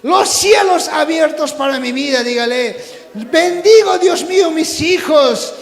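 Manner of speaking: impassioned call-and-repeat prayer, key words stretched; fervent preaching prayer. Real, not acted. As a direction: cry out the blessings for the congregation to repeat. Leads prayer at full force.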